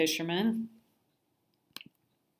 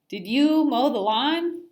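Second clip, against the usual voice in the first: high loud tease; 6 semitones higher, 6 dB louder than usual. A narrator's reading. Nicole teasing Simon.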